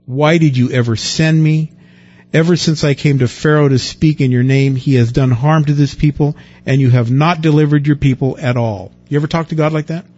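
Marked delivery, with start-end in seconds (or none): 0.0-8.9 louder, indignant lament; Moses complaining. Acted. Moses crying out to God in complaint, louder. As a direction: demand answers from God.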